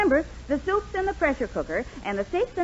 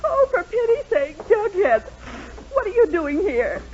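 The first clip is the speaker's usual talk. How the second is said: teary surprise; 6 semitones higher than usual. Acted. Crying wife surprised by visitor.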